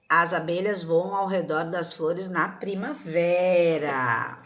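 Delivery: slow reading, stretching the last word; drawn-out answer. Shown as a demonstration. Teacher gives children the right answer, drawn-out reading. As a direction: draw out the final word "primavera".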